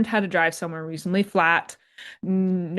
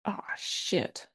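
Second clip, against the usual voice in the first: breathy whisper of sudden dread; whispered oh shit; 2 semitones lower, 12 dB quieter than usual. Pretend. Driver whispering on smelling burning brakes. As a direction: hush it out, realizing the brakes are gone.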